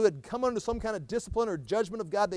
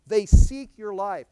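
forceful scripture; 4 semitones higher, 10 dB louder, much slower than usual. Acted.

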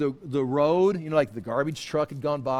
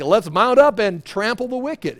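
mild battle call; 4 semitones higher, 6 dB louder than usual. Pretend. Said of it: "But he's like".

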